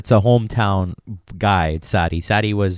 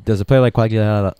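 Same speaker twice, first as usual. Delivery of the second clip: chewing gum while talking; talking around a piece of gum; mouth full; 2 semitones higher than usual. Real, not acted. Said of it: "sorry, I have a gum in my mouth".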